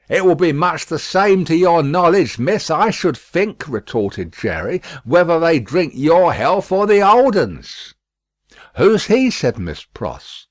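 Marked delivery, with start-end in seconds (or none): 0.1-3.7 a hint of a rough porter; rough working man's voice; gruff Jerry. A narrator's reading. 5.0-7.9 rough working man voice; sly rough porter; gruff Jerry. A narrator's reading. 8.8-9.3 high, sharp demanding question; sharp Miss Pross. A narrator's reading.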